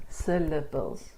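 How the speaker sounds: "Syllables" slowly broken into syl-la-bles. Shown as a demonstration. Teacher showing learners that we speak in syllables, syllable by syllable. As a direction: say "Syllables" one beat at a time, slowly. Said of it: "we speak in syllables".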